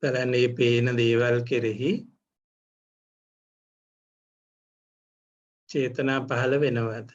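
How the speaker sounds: measured meditation guidance with long pauses; guided meditation. Real, not acted. Teacher leads meditators to notice seeing, guided meditation. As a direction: guide them phrase by phrase, leaving room to observe.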